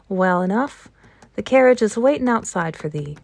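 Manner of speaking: brisk Yorkshire answer, lightly put on; light Yorkshire accent. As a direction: housekeeper answering the station master in a touch of Yorkshire. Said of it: "speaking with a Yorkshire accent herself".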